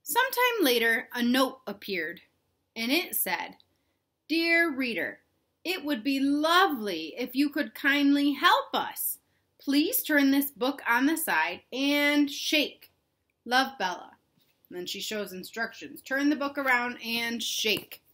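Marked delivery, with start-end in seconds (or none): 4.3-14.2 higher, polite letter reading; sweet letter voice. Acted. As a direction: read it like a sweet note. Reading Bella's note.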